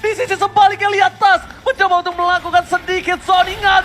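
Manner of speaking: high, loud, fast hyped call; esports caster. Real, not acted. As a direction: rattle off the fight at full hype.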